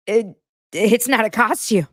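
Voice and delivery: laughing through a mock Bronwyn line. Recapper laughing while voicing Bronwyn's retort. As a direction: breaks into a laugh mid-line.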